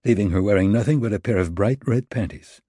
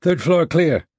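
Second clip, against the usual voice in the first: radio voice; 8 semitones higher, 4 dB louder, slower than usual. Acted. Voice over the earpiece.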